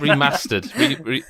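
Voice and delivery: "remastered" with a short Northern a; attempted Northern accent. Shown as a demonstration. Host imitating cohost's accent, Northern attempt. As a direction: have a go at Northern English "remastered". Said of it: "I can't do the accent that you".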